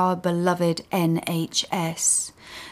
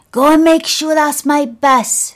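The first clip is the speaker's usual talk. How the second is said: put-on old man ordering; 8 semitones higher, 8 dB louder than usual. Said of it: "Leighton says".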